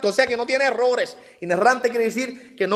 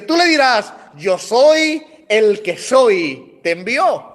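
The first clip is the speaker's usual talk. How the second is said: God answering slowly; much slower than usual. Retold or imitated. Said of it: "Y Dios le dice".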